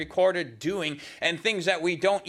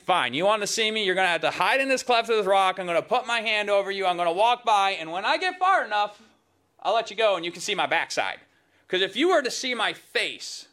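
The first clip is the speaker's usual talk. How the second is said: quick, lightly voiced God, pitched higher; voicing God; 4 semitones higher, faster than usual. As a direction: rattle off God's terms like a brisk deal. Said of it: "God's like".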